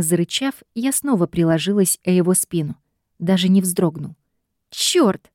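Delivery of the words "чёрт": high, sharp curse; high frustrated curse; cursing. A narrator's reading. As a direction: swear out of frustration. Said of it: "ругнулась я".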